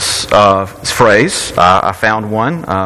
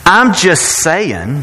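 slow, rising, higher sing-song take; drawn-out just saying; 5 semitones higher, much slower than usual. Shown as a demonstration. Preacher teasing the congregation with a slow, rising take. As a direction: stretch it out like a coy excuse. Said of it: "Have you ever said that?".

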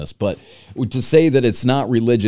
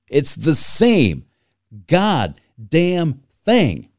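Lewis Black rant; 3 semitones higher than usual. Real, not acted. Host rails against the God of social justice, Lewis Black rant. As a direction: build a worked-up tirade, hammering key phrases. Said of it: "Did I just do a Lewis Black?".

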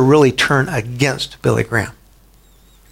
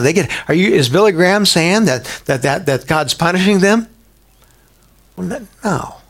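imitating side chatter. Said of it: "they would sound something like this".

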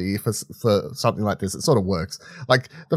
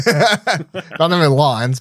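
laughing; 4 semitones higher, 4 dB louder, much slower than usual. Real, not acted. Laughing at own miscount of adults.

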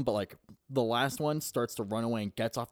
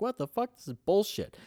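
high-pitched retold outrage; mock indignant protest; 11 semitones higher than usual. Clown protesting to his boss, mock outrage. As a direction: squeal an objection, play-acting.

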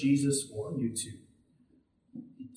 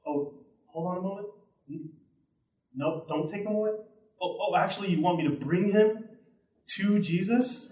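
backtracking bystander; 3 semitones higher than usual. Acted. Acted bystander backtracking after Jesus calls.

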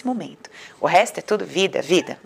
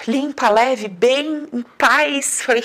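ordinary talk, nothing marked

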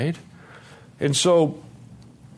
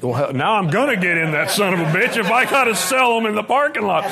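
high, loud, cocky vow; fired-up defiance; 10 semitones higher, 4 dB louder than usual. Retold or imitated. Telling his wife how he'll beat the doubter, fired-up defiance. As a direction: spit out the dare with reckless glee.

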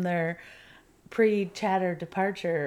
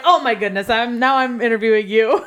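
mock surprise; 3 semitones higher, 6 dB louder than usual. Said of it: "And they're like".

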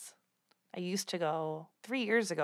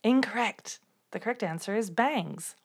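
put-on British accent; 3 semitones higher than usual. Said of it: "Did you like my accent?".

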